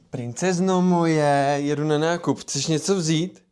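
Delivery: doting. Acted. Dad sweetly asking his daughter before shopping. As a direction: gently ask the princess what she wants.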